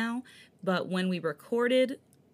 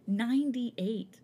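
laughing; 4 semitones higher, much slower than usual. Real, not acted. Proudly repeating her album count.

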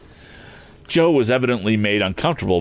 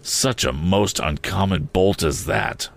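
solemn; slower than usual. Acted. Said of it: "said Joe solemnly".

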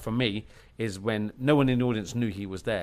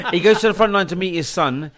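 said through a laugh, louder and higher; 8 semitones higher, 9 dB louder than usual. Real, not acted. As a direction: still laughing from the joke. Laughing after the premiere joke.

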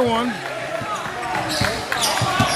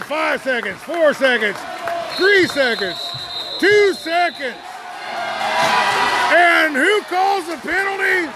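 building to a shout; excited countdown; 5 semitones higher than usual. Real, not acted. Counting down final seconds.

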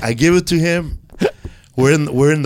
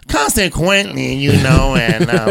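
Paul Rodriguez impression. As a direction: lightly imitate a comic starting grandly. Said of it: "His sentence is like".

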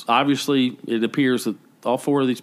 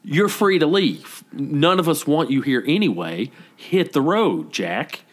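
mocking brush-off; dismissive; 2 semitones higher, slower than usual. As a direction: shoo him away with mock cheer. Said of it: "And I was like".

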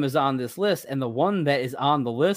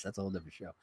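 muttered aside; 6 semitones lower, 19 dB quieter, much faster than usual. Real, not acted. Repeats the aside under his breath.

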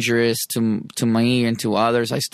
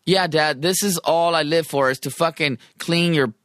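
sarcastic; 2 semitones higher than usual. Retold or imitated. Sarcastic reply to his dad.

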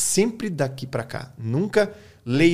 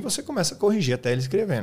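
usual speaking voice

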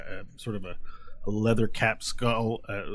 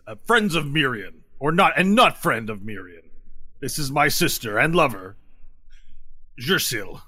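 lightly voiced lizard warrior making introductions; slightly raised, formal in-character delivery; Brahmi; 4 semitones higher than usual. Lizard warrior introduces his sister to visitors, lightly voiced and formal. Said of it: "And then he says".

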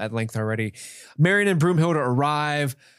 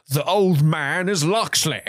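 slow, raised mock proclamation; dramatic reveal; 4 semitones higher, slower than usual. Onlookers unmasking the old man, mock dramatic. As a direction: announce it like a stunned onlooker, hammed-up. Quoting the crowd's big reveal.

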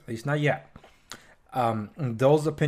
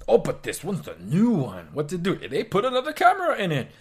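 whiny phone buyer; 4 semitones higher than usual. Acted. Mocking phone buyer's excuse.

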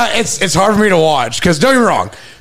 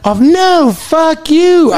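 high-pitched indignant refusal; mock outrage, voice jumping up; 10 semitones higher, much slower than usual. Worker mouthing off at imagined screeners, indignant.

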